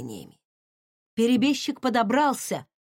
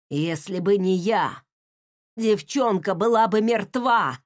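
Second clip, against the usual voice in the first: hoarse wheeze. Acted. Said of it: "просипел перебежчик".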